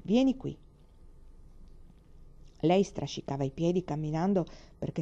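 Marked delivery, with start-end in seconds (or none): 0.1-0.6 mildly stern summons, pitched higher; narrated touch of severity. A narrator's reading. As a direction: give a restrained fatherly order. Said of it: "disse severamente".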